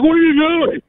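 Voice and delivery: high-pitched indignant yelp, played up; high mock voice. Startled man getting grabbed, in a high mock voice. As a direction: imitate a squeaky startled man. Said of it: "their voice gets deeper".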